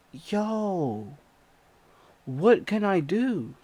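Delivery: high, loud, panicked cry for help; panicked yelling. Retold or imitated. Narrator panicking at the attacker, high panicked yell. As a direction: shout it like you're helpless and scared. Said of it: "And I'm like".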